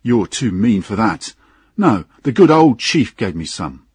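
lightly voiced tipsy cheek; drunken engineer. Tipsy engineer taunting his captain over drink, lightly slurred. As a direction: answer back like a cheeky drunk. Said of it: "did not seem able to speak clearly".

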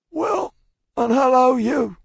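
high, hoarse shouted hail; hoarse reply. A narrator's reading. Jerry answering the guard's hail, hoarse call. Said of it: "more hoarsely than before".

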